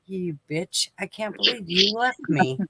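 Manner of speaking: soft, hushed mock indignation; baby's mock grudge, muttered. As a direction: voice the annoyed baby's thoughts quietly. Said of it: "looking at you like".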